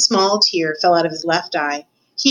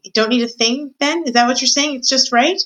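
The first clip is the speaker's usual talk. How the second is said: hopeful story Cook; 6 semitones higher than usual. Acted. Cook hopes for praise.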